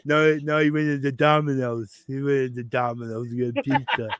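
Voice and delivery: mock mumble through a mouthpiece; imitating a man in a mouth guard. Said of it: "talking with the mouth guard in".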